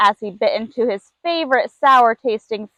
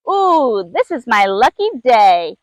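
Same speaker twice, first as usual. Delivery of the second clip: mewing lemur. Acted. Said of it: "mewed and purred the second little lemur".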